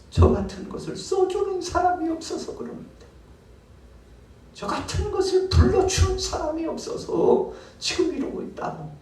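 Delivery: very high, strained pleading voice; a broken man begging the master; pitiful worker. Acted. Worker's high pitched lament to master. (주인에게 애처롭게 하소연하는 높은 목소리)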